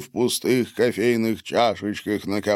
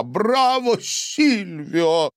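cheering; 10 semitones higher, much slower than usual. A narrator's reading. Emmanuel applauds loudly.

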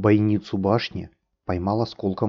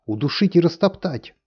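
sharp barked order, higher; 8 semitones higher than usual. A narrator's reading. Tornado demanding the prisoner be crushed, barked shout. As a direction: bark out the sentence. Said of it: "гаркнул Торнадо".

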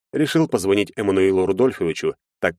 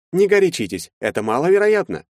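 higher, placating voice; calm him down condescendingly; smooth lawyer; 11 semitones higher, 3 dB louder than usual. A narrator's reading. Lawyer to Maxim, higher and placating.

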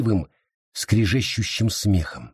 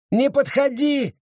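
shout; 13 semitones higher than usual. Acted. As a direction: shout her back, keep her away. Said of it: "крикнула Сара".

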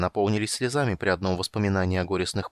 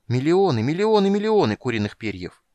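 loud, high, building wonder; excited exclaim; 6 semitones higher, 5 dB louder than usual. Acted. Kender reliving the feather burst, building excitement. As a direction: throw your arms wide on each.

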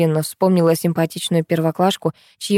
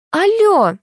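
high, loud, piercing "Алло!"; piercing shout; 11 semitones higher, 3 dB louder than usual. Acted. Rude mother yelling into the phone, piercing. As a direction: shriek it into the phone. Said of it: "закричал пронзительный голос".

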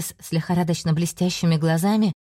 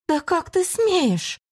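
outraged demon shriek; 11 semitones higher, much slower than usual. Acted. Enraged demon.

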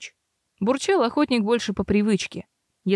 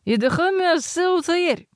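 mumbled into a mug; 8 semitones higher than usual. A narrator's reading. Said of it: "пробулькал в кружку с вином".

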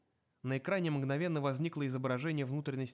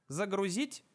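металлический голос; 6 semitones higher, slower than usual. A narrator's reading. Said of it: "спросила коробка".

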